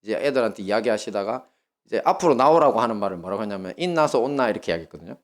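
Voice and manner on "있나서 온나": Gyeongsang teacher. Retold or imitated. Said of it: "경상도 사투리를 너무 많이 쓰는 선생님".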